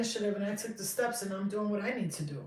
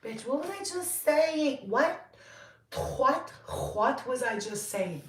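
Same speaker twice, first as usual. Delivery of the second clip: sassy mock outrage; 5 semitones higher, slower than usual.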